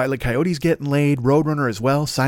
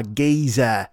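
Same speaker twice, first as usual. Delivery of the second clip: mock Cockney; 4 semitones lower than usual. Shown as a demonstration. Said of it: "British gangster films would call".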